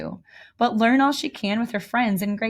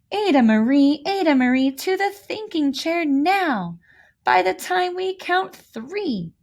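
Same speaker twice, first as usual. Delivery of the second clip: scolding parents; 6 semitones higher than usual. Acted. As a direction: call her name like a cross mother. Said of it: "said her mother".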